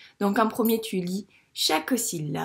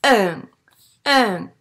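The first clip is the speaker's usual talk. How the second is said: decoding aloud; 2 semitones lower, 9 dB louder than usual. Shown as a demonstration. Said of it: "C'est le mot outil".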